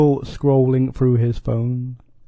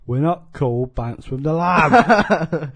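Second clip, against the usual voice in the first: slow mocking impression of Cole; imitating Cole's voice, slowly; 2 semitones higher, 3 dB louder, slower than usual. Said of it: "I think I perfected it".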